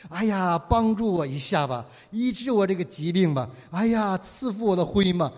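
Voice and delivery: mock begging prayer. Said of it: "你不需要再苦苦的哀求".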